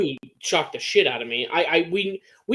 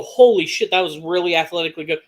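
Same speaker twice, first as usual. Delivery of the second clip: imitated burst of awe; amazed reaction; 2 semitones higher, 3 dB louder than usual. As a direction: blurt it like an impressed fan, then quicken. Acting out amazed viewer's reaction.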